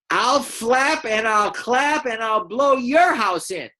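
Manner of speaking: high, slow squawking bird voice; squawking eagle. Acted. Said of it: "so that's the eagle's voice".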